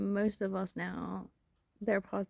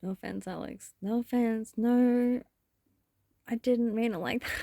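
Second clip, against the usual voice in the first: lightly mocking put-on voice, getting louder; 3 semitones higher, 5 dB louder than usual. Shown as a demonstration. Teasing Alex in her mocking voice. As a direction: take the piss in a teasing voice. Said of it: "That's the voice that I do for everyone".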